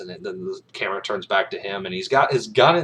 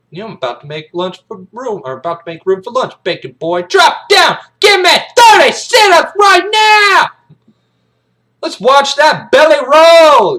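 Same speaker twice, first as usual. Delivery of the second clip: high taunt exploding into a scream; shouted military punishment; drill-sergeant orders; 16 dB louder than usual. Acted. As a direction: build to a full-volume command. Sergeant orders sit-ups.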